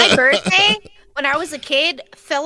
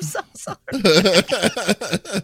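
slow, laughing through the words; laughing apology; 6 semitones lower, much slower than usual. Real, not acted. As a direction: giggle the apology out. Laughing while apologizing for yawning.

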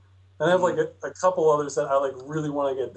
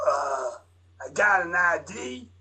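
Vortigaunt voice; 2 semitones higher, slower than usual. Acted. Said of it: "I'll do the Vortigaunt voice".

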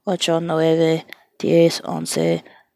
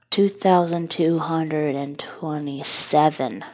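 awed whisper; 5 semitones lower, 10 dB quieter than usual. Real, not acted. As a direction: breathe the number in amazement. Awed at the number.

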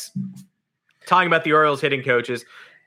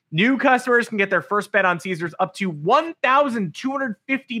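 hyped betting ad; 4 semitones higher than usual. Acted. Host reads sportsbook ad.

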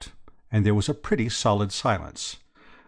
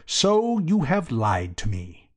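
furious; 5 semitones higher, 3 dB louder than usual. A narrator's reading. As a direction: accuse with mounting, measured outrage. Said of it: "Old Chiswick foamed at the mouth".

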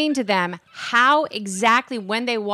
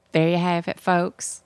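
put-on Southern sign-off; demonstrated Southern accent; 4 semitones lower than usual. Shown as a demonstration. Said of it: "that's how you do the Southern accent".

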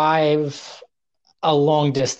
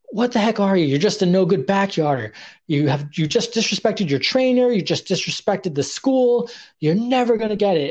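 retold scolding; 5 semitones higher than usual. Owner berating trainee at wrestling school, mock scolding. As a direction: imitate an angry coach dressing down a trainee. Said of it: "yelled at me in front of everybody".

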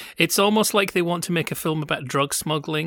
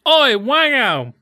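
wango said slow and high; the first, misheard take; misheard version; 9 semitones higher, 7 dB louder, much slower than usual. Retold or imitated. Host replaying what he first heard, slow yell. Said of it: "he goes".

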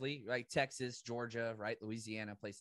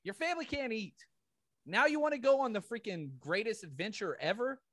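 raised, indignant scolding; mock scolding; 6 semitones higher than usual. Scolding Willy Wonka's grandpa, mock angry.

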